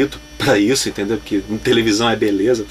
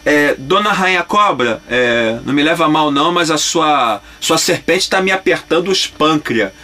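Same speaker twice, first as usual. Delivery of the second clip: cartoon line. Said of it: "Eu falei".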